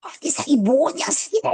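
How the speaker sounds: mock yell, pitched high and drawn out; retold yelling. Telling how they yelled back in the dispute, high mock yell. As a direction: reenact hollering back at full-throated opponents. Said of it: "나 목소리 진짜 크거든".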